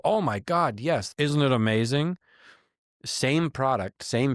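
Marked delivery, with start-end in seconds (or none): 0.0-2.2 excited customer. Retold or imitated. Customer's overjoyed reply, voiced.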